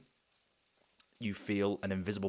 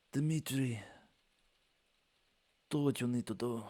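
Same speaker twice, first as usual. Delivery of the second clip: higher, lightly voiced cruel command; cold order; 5 semitones higher than usual. Otter ordering the Goliath to punish the loser, lightly voiced. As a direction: give the order like it's nothing. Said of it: "turning around and goes".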